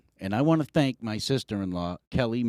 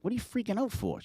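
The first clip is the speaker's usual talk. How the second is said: pitched way up, mocking disbelief; incredulous; 13 semitones higher, 4 dB quieter, faster than usual. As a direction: toss it back incredulously. Retold quarrel with wife.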